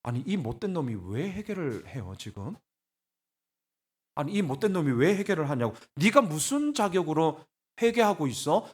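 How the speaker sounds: irritated, incredulous challenge; indignant. Acted. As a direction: demand to know what right he has. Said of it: "막 저는 막 화가 나요".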